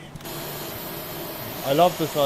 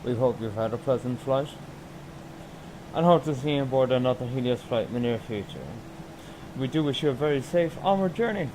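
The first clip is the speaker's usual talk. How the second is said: lightly put-on airline pilot PA voice; captain announcement. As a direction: read it like a captain on the intercom. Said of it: "I make a fake announcement to fake passengers".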